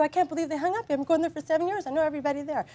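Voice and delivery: high-pitched aggrieved complaint; worked-up, incredulous retelling; retold indignant disbelief. Retelling her upset to husband.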